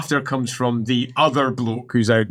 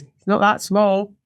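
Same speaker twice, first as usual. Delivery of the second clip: slow, higher-pitched correction; lightly voiced initiate; 7 semitones higher than usual. Other initiate disagreeing, acted slow correction. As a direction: gently contradict your companion.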